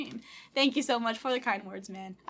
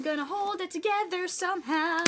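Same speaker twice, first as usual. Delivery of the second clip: real fight against tears, pitched up; holding back tears; 6 semitones higher, 4 dB louder than usual. Real, not acted. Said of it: "I'm going to cry".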